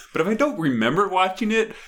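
high, mock-fretting self-talk; inner voice. Stoned at home, a lightly high fretting inner voice. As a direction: debate with yourself, fretting. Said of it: "then I'm like".

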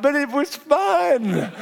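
husband laughing to his crying wife; sheepish laugh. Retold or imitated. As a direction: laugh it off, a little guilty. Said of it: "I'm like".

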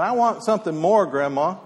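complaining. Retold or imitated. Hungry boy to his grandmother, complaining. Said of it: "the boy started complaining".

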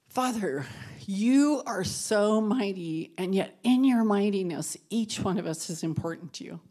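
softening, reverent prayer voice; closing prayer. Acted. Leading the women in a closing prayer, reverent and fading. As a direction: pray over the group, growing hushed.

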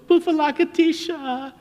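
put-on high, loud echo of a child's chant; imitated yell back. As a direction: parrot the little girl's call at a high pitch. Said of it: "and we'd yell back".

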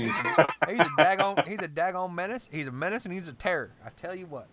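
laughing mock redneck voice; loud, laughing redneck rant.

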